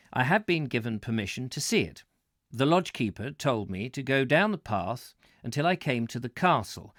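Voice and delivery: measured, projected read-aloud voice; book narration. Real, not acted. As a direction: read the travel book out to listeners, clearly phrased. Reads book aloud to viewers.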